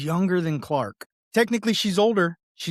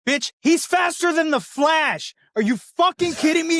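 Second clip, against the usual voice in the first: mocking Pa Kent; 11 semitones higher, 4 dB louder than usual. Mocking Pa Kent's movie line to cohost, higher and louder. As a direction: ham up a furious Pa Kent. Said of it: "when Pa Kent goes".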